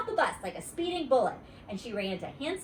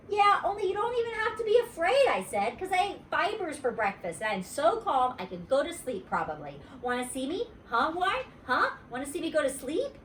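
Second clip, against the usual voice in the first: put-on excited little girl; 8 semitones higher than usual. Junie B voice.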